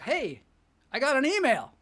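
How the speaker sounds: excited novelty. Acted. Comedian acting out getting an early email, excited. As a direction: act out the thrill of new mail. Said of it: "thing where you're like".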